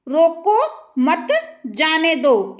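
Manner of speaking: slow "रोको मत", break, then falling "जाने दो"; pause after मत. Shown as a demonstration. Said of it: "इसको रोकना नहीं है".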